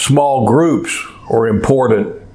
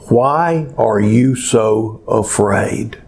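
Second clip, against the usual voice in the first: gentle question; 4 semitones lower, slower than usual. Acted. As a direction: ask it gently to a frightened friend. Pastor repeats Jesus' question gently.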